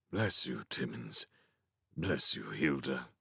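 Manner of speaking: soft, low murmur. A narrator's reading. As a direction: murmur it gratefully, softly. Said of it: "Great-Uncle William murmured".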